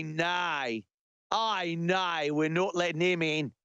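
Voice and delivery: dismissive mock Aussie gatekeeper; broad comic Australian vowels; Australian accent. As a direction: refuse entry in a put-on Australian accent. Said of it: "Australia goes".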